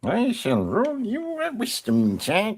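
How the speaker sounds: high, slow theatrical acceptance; stretched-out, playfully formal proclamation; mock-grand. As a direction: draw it out with hammed-up ceremony. Player grandly answers the GM's request.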